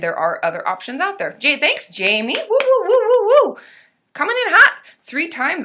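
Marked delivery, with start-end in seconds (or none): 2.4-3.6 loud high playful monkey hoots. Pretend. Hooting like a monkey to thank a viewer for likes. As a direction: hoot like a monkey to cheer a viewer. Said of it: "his monkey noises".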